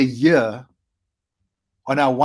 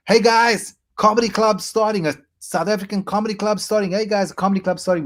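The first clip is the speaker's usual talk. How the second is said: calling out; 5 semitones higher than usual. Retold or imitated. Flyering, calling to passers-by.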